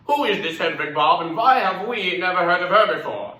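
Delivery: theatrical East German cabaret singer; Hedwig, wry stage diva. Acted. Ignored song stylist addressing her audience, showy and wry. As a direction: play to the crowd, swinging from big to confiding.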